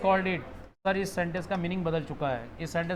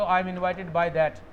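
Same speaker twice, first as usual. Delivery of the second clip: slow, deliberate English example; teacher modelling a passive sentence; slow model sentence; much slower than usual. Shown as a demonstration. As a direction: say it slowly for the class to copy. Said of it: "by लगाकर किसी व्यक्ति का नाम बोल दो".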